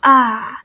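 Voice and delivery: "ah" as a long open vowel; British long A. Shown as a demonstration. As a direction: draw out "ah" the British way. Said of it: "the long vowel sound".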